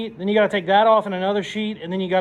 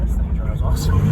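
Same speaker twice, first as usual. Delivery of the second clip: laughing; 7 dB louder than usual. Real, not acted. Overjoyed after drive.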